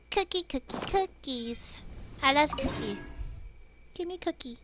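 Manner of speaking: put-on little cutesy baby talk; cuteness overload voice. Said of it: "mix up the cuteness overload voice".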